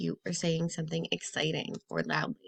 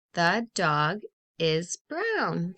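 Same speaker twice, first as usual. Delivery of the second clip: satisfied slow reading; 2 semitones lower, much slower than usual. Shown as a demonstration. Teacher praising the correct sentence, slow and pleased. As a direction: savour the right answer. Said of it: "That makes sense".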